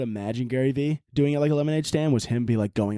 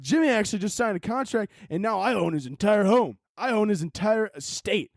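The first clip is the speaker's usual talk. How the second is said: mock smug vlogger; 6 semitones higher than usual. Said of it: "He's like".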